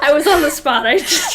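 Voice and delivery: laughing flustered. Real, not acted. Flustered after laughing fit.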